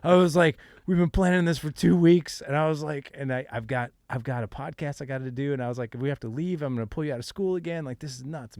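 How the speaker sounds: high and loud exasperated rant; retold yelling at son.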